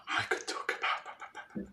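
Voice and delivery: slow, hushed mock musing; drawn out softly as if thinking aloud; musing client. Client pondering what to talk about, slow hushed musing.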